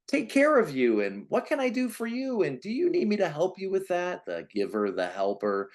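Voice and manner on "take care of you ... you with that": higher, sweet helpful mother offering; a lightly voiced doting mom, eager to help; caring mom voice. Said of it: "nurturing caregiver".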